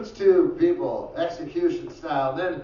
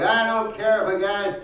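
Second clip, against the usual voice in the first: earnest, drawn-out righteous guy; mock virtue voice; mock progressive guy; 3 semitones higher, slower than usual. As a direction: play the smug tolerant guy, slowly. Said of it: "those guys are like".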